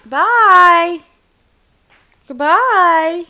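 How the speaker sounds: high goodbye. Real, not acted. Loud goodbye to baby.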